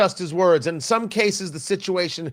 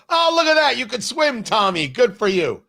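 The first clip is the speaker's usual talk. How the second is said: put-on bright, high praise to a little kid; mock proud parent; 6 semitones higher than usual. Parent praising Tommy for swimming, gently mock proud. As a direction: cheer on a child who just learned to swim. Praising child who can swim.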